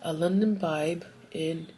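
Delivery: half-hearted Jamaican accent attempt; botched Jamaican accent. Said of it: "what kind of accent was that".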